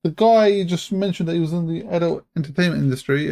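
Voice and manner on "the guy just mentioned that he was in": surprised. Real, not acted. Caught out by a question.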